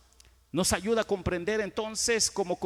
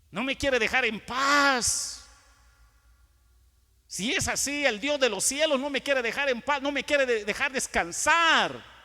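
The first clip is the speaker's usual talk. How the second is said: exasperated complaint; 7 semitones higher, 5 dB louder than usual. Acted. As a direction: complain like you can't get any peace. Acts out an exasperated believer's complaint. (queja exasperada, exagerada)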